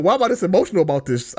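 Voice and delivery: retold emotional outburst. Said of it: "I'm like".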